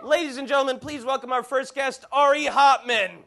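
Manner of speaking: loud, high showman announcement; announcer. Acted. Host announcing the first guest, booming announcer voice. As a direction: introduce the guest like a big stage host.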